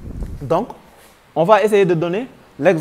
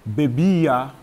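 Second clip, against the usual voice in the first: bebía with the í stressed and held; 4 semitones lower than usual. Shown as a demonstration. Spanish teacher showing the accent in bebía, stressed í. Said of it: "avec l'accent toujours".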